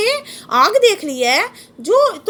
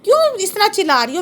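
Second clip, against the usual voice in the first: lightly voiced prisoner poet, anguished question; poet asking the cuckoo; 6 semitones higher than usual. Poet in jail asks the crying cuckoo, mildly anguished. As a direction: plead with the bird in pained wonder. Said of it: "कोयल से वेदनापूर्ण आवाज़ सुनकर पूछ रहा है".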